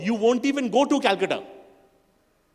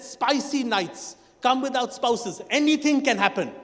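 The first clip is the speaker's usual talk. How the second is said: suggestive tease. Retold or imitated. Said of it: "It said".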